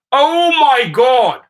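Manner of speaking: high, loud and drawn out in disbelief; exasperated oh my God. Real, not acted. Driver hearing a drunk rider's request, loud slow disbelief. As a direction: stretch it out, utterly fed up.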